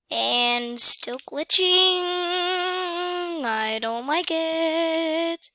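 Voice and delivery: grumbling singsong, very slow; drawn-out whine. Real, not acted. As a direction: whine it, dragging out the words. Whining drawn-out complaint about glitch.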